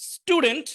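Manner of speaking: স্টুডেন্ট with a retroflex ট after the s; t as Bangla ট. Shown as a demonstration. Teacher repeating স্টুডেন্ট with the ট sound. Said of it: "স্টুডেন্ট এখানে S এর পরে এসেছে".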